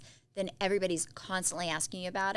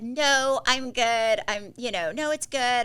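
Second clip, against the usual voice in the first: dad insisting; 5 semitones higher, 8 dB louder, slower than usual. Retold or imitated. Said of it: "he said".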